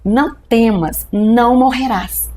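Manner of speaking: very slow, solemn, a mild hint of a thundering divine voice; voice of God. God answering her prayer in the hospital, slow and solemn. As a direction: give each word weight like a voice from heaven. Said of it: "aquela voz ressoava igual um trovão".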